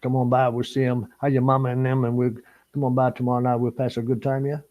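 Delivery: lightly put-on Cajun accent; mock Cajun talk, run together. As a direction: imitate a friendly Cajun local's accent. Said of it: "Sean, you don't say".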